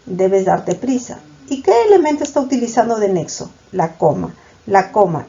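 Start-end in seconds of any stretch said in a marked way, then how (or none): 0.1-1.2 slow example reading. Shown as a demonstration. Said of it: "Segunda proposición".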